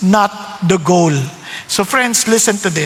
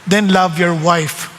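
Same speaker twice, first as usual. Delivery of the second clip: God's voice; 4 semitones lower, slower than usual. Retold or imitated. Voice of the Lord.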